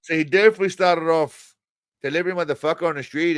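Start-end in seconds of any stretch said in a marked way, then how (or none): 2.0-3.4 lightly imitated Latino tough-guy accent; mock Latino accent. Commentator mimicking the actor's opening line, mock Latino accent. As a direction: have a rough go at a Latino accent. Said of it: "kind of like doing a Latino".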